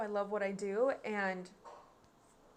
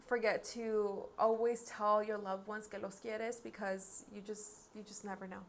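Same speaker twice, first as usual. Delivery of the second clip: sincere plea; 6 dB quieter than usual. Real, not acted. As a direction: plead gently with viewers to stay safe. Closing reminder to tell loved ones.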